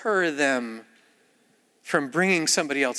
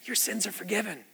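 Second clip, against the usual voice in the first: incredulous echo; 3 semitones higher, 9 dB quieter than usual. Retold or imitated. Friends echo Jesus in disbelief.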